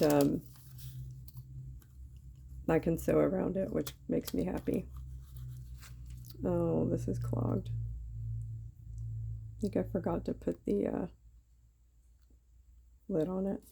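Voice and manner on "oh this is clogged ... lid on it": a thin squeaky voice today. Real, not acted. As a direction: speak with a squeaky voice. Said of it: "My voice is really squeaky today".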